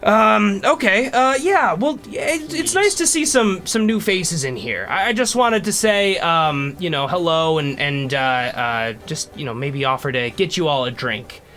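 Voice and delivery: put-on a kindly old dwarf greeting strangers; an elderly dwarf, a little hesitant. GM plays old dwarf NPC.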